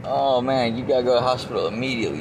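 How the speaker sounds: loud, rushed acted alarm; urgent warning. Uncle urges nephew to hospital immediately, retold urgent warning. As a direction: hurry out the warning, retelling his alarm.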